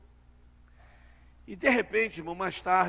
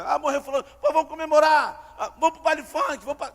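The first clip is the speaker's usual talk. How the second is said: mock celebration; 5 semitones higher, 6 dB louder than usual. Mocking absurd mourner.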